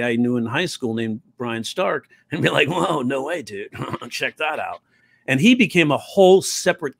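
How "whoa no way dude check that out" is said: laid-back stoner dude; a hint of a spaced-out stoner. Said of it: "a bit of a stoner voice".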